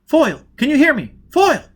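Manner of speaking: loud high call over the radio. Acted. Dagenham hailing Foyle over the radio, loud. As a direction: shout his name to reach him.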